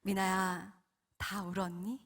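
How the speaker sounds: calm, tender divine voice; gentle Holy Spirit. Retold or imitated. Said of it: "성령님의 음성이 들립니다".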